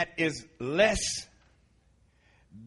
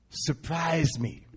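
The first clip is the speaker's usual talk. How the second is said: slow prayer; much slower than usual. Retold or imitated. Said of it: "It was only a two-word prayer".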